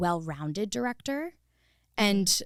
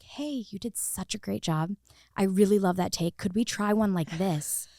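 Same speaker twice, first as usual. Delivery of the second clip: gentle encouragement. Shown as a demonstration. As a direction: coax the actor kindly toward another take. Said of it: "Or like".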